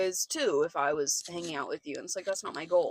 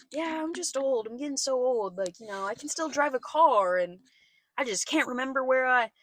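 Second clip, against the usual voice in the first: imitated elderly landlord; 4 semitones higher than usual. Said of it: "who is eighty-six".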